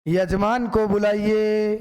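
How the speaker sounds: slow, drawn-out priestly call; a light imitation of a temple priest summoning; lightly voiced pandit calling the host; imitating the pandit. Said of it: "पंडित जी को बोलते हुए सुनते हो".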